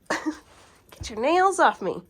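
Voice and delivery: laughing scold, slow and high; laughing protest. Real, not acted. Scolding the cat clawing her thighs, laughing.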